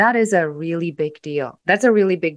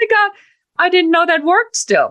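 very high, loud, laughing through the words; 13 semitones higher, 6 dB louder than usual. Showing how to answer an attack by laughing it off while speaking. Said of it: "start laughing".

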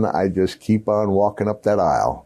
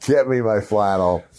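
ordinary talk

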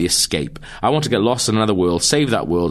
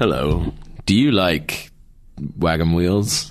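very drawn-out, very slow TV advert voiceover voice; 3 semitones lower than usual. Showing how they'd sound voicing a Wagon Wheels advert: advert voiceover voice. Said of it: "If I was doing a voice".

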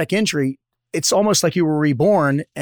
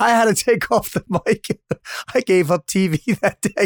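talking through laughter, higher pitch; 4 semitones higher than usual. Reacting to a guest's joke, laughing while talking. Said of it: "I can't stop laughing".

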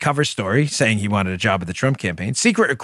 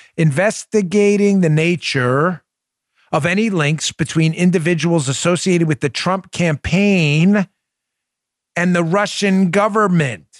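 very slow, deliberate word-by-word reading, pitched up; 5 semitones higher, 3 dB louder than usual. Reading a quote aloud for the liberals: reading slowly. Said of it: "I'm gonna read this slow".

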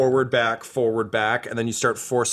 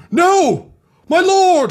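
screaming, much higher and louder; 9 dB louder than usual. Game master voices a woman in Imperial Guard armor rushing in, screaming. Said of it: "she just screams".

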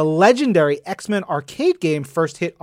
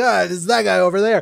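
put-on drunk man voice; 3 semitones higher than usual. Retelling a comic panel where a drunk guy points someone out: imitating a drunk guy. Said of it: "a drunk guy, is like".

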